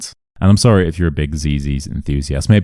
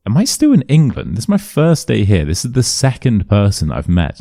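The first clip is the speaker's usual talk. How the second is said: higher-pitched, retold disbelief; baffled inner thought; 5 semitones higher than usual. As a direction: wonder aloud in mock bewilderment.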